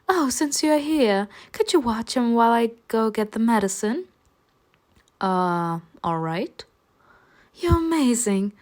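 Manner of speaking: hint of a chirpy girl asking a favour; Messalina voice.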